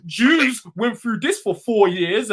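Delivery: slow, sneering parody of the other side; mocking his argument. Mocking a mate's argument in a heated row, slow and sneering. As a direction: drag it out like a dumb excuse. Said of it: "You're trying to say".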